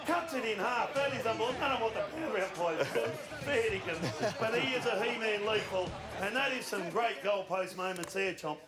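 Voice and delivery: slightly breathless; out of breath. Real, not acted. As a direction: talk through light puffing. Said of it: "Are you out of breath?".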